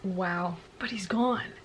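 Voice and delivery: breathless whispered awe; stunned whisper. Real, not acted. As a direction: whisper it, floored. Stunned by plot twist.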